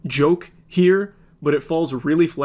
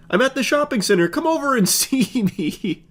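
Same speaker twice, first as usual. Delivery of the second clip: mock creep voice; 9 semitones higher than usual. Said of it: "creep's text voiced mockingly".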